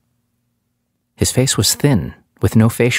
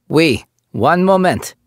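put-on high, slow French-accented reply; 10 semitones higher, slower than usual. French officer telling the captive to wait, French accent. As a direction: answer calmly with a thick French accent. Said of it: "The accent was thick".

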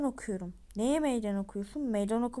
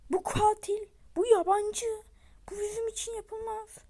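excited accusation; 9 semitones higher, 4 dB louder than usual. Acted.

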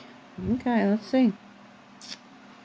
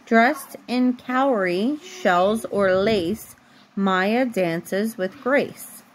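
slow, even storybook reading; reading to a child; slower than usual. A narrator's reading. Mom reading a bedtime book to her daughter, slow storybook voice. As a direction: read the picture book aloud, unhurried, for a little one.

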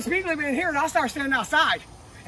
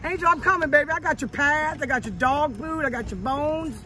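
calling out to dog; 2 semitones higher than usual. Real, not acted. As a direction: call out to a pet.

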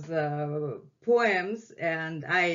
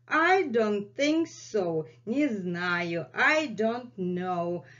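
Messi's voice; 2 semitones higher than usual. Pretend. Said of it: "And Messi is saying".

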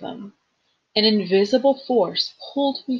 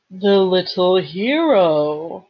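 amused ancient voice; 5 dB louder, much slower than usual. A narrator's reading. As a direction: drawl it like an old evil thing. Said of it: "an amused voice far down in the darkness".

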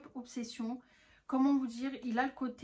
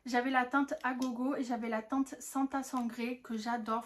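usual speaking voice

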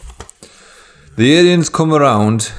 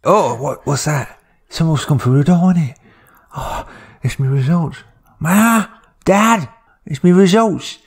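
put-on excited teen; 8 semitones higher than usual. Teen calling to his parents about his exam results, high and excited. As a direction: call out thrilled about the letter. Teen hears post arrive.

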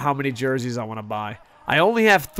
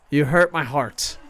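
mock hurt; slower than usual. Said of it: "why do you ruin my streams".

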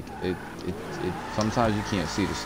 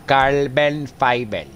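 slow, louder relishing drawl; savoring; 4 semitones higher, 6 dB louder, much slower than usual. Pretend. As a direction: relish every syllable. Drawn-out relish.

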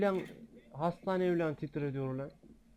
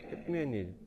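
resigned mutter; faster than usual. Real, not acted. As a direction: give up on them under your breath. Repeats complaint, giving up.

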